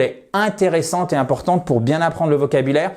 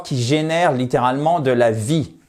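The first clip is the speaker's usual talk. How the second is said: ordinary talk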